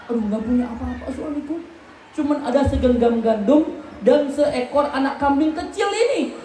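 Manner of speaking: lightly voiced wife, apologetic; a hint of a worried wife; wife's voice. Wife telling husband there is no food, lightly voiced.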